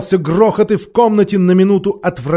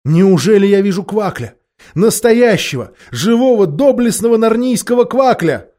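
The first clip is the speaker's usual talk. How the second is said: raised, mounting wonder; amazed exclamation; 5 semitones higher, 6 dB louder than usual. A narrator's reading. Freed knight astonished at seeing a marsh-wiggle, amazed exclamation. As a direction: marvel louder and higher with each epithet. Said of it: "воскликнул он".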